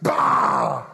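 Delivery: low, gruff Scrooge "Bah!". Acted. Preacher playing Scrooge for the congregation, gruff and dismissive. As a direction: growl it like a grumpy miser. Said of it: "Don't be a Scrooge".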